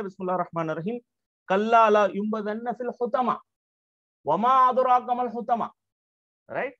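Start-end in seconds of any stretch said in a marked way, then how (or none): 0.0-5.7 measured Quranic recitation. Shown as a demonstration. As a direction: recite the verses as in prayer. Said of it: "Allah subhanahu wa ta'ala will say".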